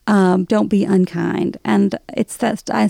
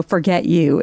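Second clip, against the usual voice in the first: quiet dismissal; 4 semitones lower than usual. Shown as a demonstration. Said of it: "it also can mean".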